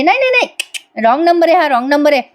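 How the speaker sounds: high-pitched hurried brush-off; acted panicky protest; flustered denial. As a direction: deny it and get off the call. Priya hurriedly denies knowing the caller.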